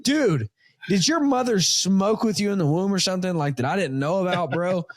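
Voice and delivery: disbelieving dad ribbing his son; father mock-scolding his son over the snake bites, exasperated.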